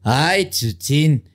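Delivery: very slow drawn-out sing-song; fake-caring mom; mock sweet excuse. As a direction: stretch it out innocently to cover up. Mother covering up, sing-song.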